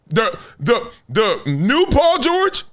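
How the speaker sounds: high, slow incredulous rise; high-pitched slow disbelieving question; mock disbelief. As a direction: ask it as if it can't be true. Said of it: "You were like".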